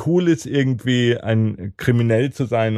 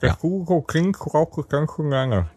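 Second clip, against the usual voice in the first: cork in mouth. Real, not acted. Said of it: "so einen Korken in den Mund nehmen".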